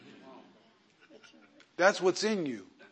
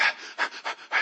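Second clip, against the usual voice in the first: imitated panting; 3 dB quieter than usual. Imitates wife running on phone.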